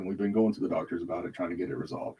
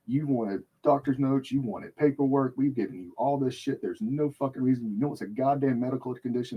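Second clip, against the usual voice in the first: angry rant. Retold or imitated. Ranting at nurse.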